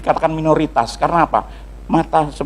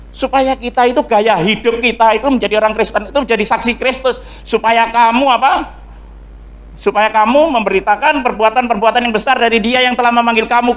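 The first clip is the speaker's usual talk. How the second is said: high, insistent sermon delivery; preaching at full force; 6 semitones higher than usual. Real, not acted. Preacher exhorts congregation about being chosen people, preaching at full force. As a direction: preach it high, drawing out key words.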